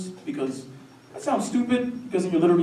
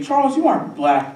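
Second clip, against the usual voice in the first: high, louder mimicry of people; lightly mocking, pitched-up remark; imitated acquaintance; 9 semitones higher, 6 dB louder than usual. People telling Charles about himself, mock high voice. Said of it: "I hate when people say".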